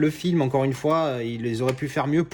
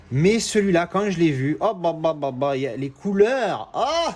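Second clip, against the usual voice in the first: gushing, leaping up into an awed "oh"; getting carried away; 3 semitones higher than usual. Real, not acted. Reviewer raving about the film's colours, carried away. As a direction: let the enthusiasm run away with you. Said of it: "je m'emballe, je m'enflamme".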